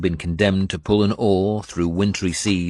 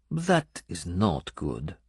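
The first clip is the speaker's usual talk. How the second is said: serious; 5 dB quieter, slower than usual. Acted. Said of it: "she said seriously".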